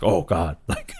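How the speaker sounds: laughing while imitating a weepy line; mocking through laughter. Mocking a crying character to her cohost, laughing through it. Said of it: "you're just like".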